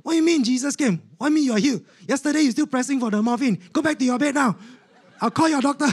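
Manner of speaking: high, disbelieving telling-off; scolding nurse. Retold or imitated. Nurse disbelieving patient's healing, high scolding.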